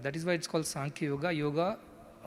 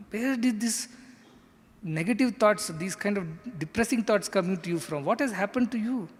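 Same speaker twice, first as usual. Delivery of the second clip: raised-pitch, mildly reproachful questioning; scolding Krishna; 4 semitones higher than usual. Acted. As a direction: demand an explanation, as in a teacher's telling-off. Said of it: "so he sets the tone".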